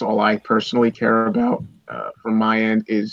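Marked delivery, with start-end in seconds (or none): 1.9-3.1 voice crack. Real, not acted. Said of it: "Nice voice crack".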